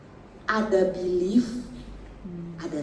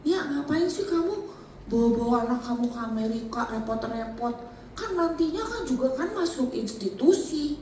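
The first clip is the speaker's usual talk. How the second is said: imitating the friend; 3 semitones higher than usual. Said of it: "temen telepon gini".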